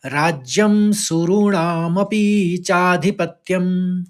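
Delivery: slow, measured Sanskrit chant; slow verse recitation. Shown as a demonstration. Teacher reciting the verse to students, slow and measured. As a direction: recite the shloka slowly and evenly. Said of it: "एक बार और सुनिए".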